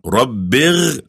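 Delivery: "Rabbir" with a throaty gargled r, like gh; gargled r sound. Shown as a demonstration. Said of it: "This r sound is like a gargling sound".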